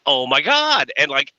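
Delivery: mock a British girl gone Valley girl, bubbly; Valley girl impression. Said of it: "she's got that British accent, but she's like".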